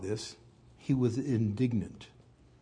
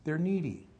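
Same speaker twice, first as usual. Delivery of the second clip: "needy" pitched high and pressed; first "They're needy" raised and insistent; emphatic; 5 semitones higher than usual. Shown as a demonstration. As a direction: lift "needy" high to drive it home. Repeats the point twice.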